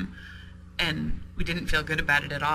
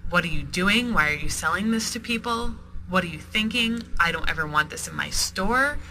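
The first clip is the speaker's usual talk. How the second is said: upset; 3 semitones higher than usual. Retold or imitated. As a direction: scold the supplier, half-acted outrage. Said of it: "really upset and said".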